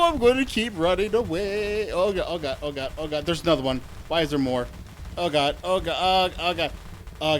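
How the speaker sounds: panicked oh god while fleeing; terrified gibbering. Real, not acted.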